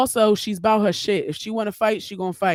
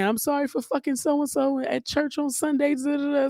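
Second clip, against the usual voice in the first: mock prayer; 8 semitones higher than usual. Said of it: "praying and saying".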